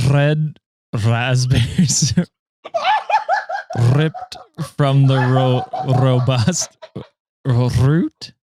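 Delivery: halting, laughing try at rolling the R in "red", "ripped", "root"; attempted rolled R. Shown as a demonstration. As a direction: stumble through "red raspberries" fighting the rolled R. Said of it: "Try and roll your R".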